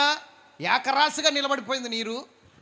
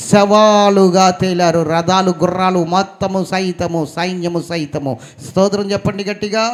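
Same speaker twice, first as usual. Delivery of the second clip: full-force preaching; 3 semitones lower, 11 dB louder than usual. Acted. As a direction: hammer out the victory.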